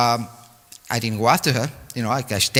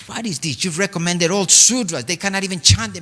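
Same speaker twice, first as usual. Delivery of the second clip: annoyed complaint; 6 semitones higher than usual. Retold or imitated. Guru complains about poorly trained candidates, higher annoyed scolding. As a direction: scold him for the unready candidates.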